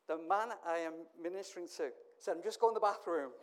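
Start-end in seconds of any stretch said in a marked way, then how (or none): 2.4-3.3 quoted through a laugh; laughing escape line. Retold or imitated. Man slipping off to the bathroom, laughing. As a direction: laugh out the excuse to leave. Guest flees mid-prayer, laughing.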